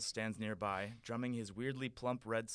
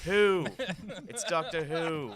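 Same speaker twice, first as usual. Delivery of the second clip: very loud, fast cockney; cockney Doctor; 7 semitones higher, 8 dB louder than usual. Acted. The Doctor offering to help the prince, in loud cockney. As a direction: boast in brash cockney.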